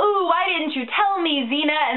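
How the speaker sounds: lightly voiced complaint, hammed-up "ooh"; Gabrielle. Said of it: "and Gabrielle is all".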